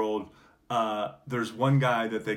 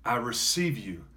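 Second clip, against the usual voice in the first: prayer. Acted. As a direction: lead the prayer phrase by phrase with pauses. Leads the congregation in prayer.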